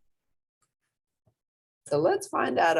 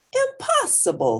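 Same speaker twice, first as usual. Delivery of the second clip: the dad's answer; 5 dB louder than usual. Acted. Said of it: "shaking his head".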